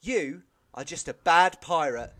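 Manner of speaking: slow, earnest misquote; full sincerity. Retold or imitated. Imitating a teacher misquoting a film line, full sincerity. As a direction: imitate a deadly sincere delivery, word by word. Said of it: "in full sincerity".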